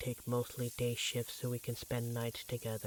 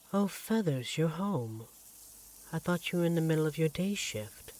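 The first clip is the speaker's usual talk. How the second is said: higher, brighter lift of surprise; pleasantly surprised; 5 semitones higher, 4 dB louder than usual. Acted. Greeting his partner home early, pleasantly surprised. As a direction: caught off guard, glad to see her.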